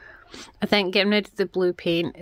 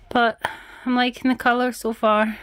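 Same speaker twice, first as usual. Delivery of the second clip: breathless from painting; out of breath; 3 semitones higher than usual. Real, not acted. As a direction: say it winded. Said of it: "I am so out of breath".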